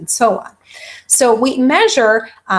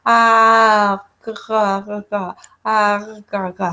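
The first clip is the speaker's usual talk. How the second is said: put-on baby cooing with g sounds; slower than usual. Shown as a demonstration. Lecturer showing students how a baby lying down coos, mild baby imitation. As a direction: play a baby on its back cooing with stray g sounds. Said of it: "you might hear".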